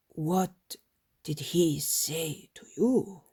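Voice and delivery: cold, slow, hushed question; coldly. Retold or imitated. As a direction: ask flatly and coolly, almost whispered. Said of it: "asked Simon coldly".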